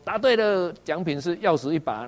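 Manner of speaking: a game show host congratulating a contestant; cheery quiz host. Retold or imitated. Preacher voicing Jesus praising Peter, cheery quiz-host style.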